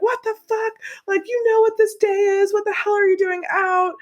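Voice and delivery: high-pitched mock outrage; mock scolding. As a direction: imitate an outraged mom telling off kids. Acted scolding of caught teenagers.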